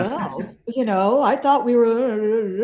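mock sulky grumble, trailing off; pouty. Woman imitating her partner after a long phone call, pouty. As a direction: imitate a pouting partner, dragging out the last words. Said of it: "Peter was sort of pouty".

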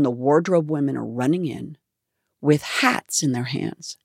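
normal talking voice

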